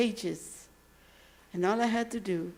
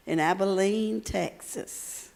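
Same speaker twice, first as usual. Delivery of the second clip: put-on Texan accent; slower than usual. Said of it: "where they talk just like that".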